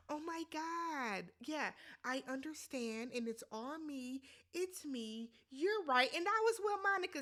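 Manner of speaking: soft, meek imitation of a pandering man. Mocking Steven's apology to Monica, soft pandering voice. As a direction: lightly play a meek whiny apologizer. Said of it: "the little pandering voice".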